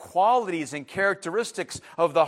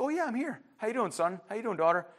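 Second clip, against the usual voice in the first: lightly voiced God, soft and casual; a hint of a friendly, fatherly God; easygoing God; 3 semitones higher, 5 dB quieter, faster than usual. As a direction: answer softly like a relaxed father. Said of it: "He's like".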